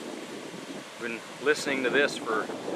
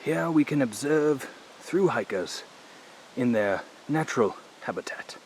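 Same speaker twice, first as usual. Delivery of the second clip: nature documentary; 5 dB quieter than usual. Pretend. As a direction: narrate hikers like a wildlife film. Mock wildlife film narration of hikers.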